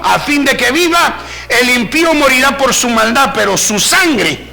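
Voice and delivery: forceful scripture reading. Acted. Preacher reading God's warning to the church, forceful.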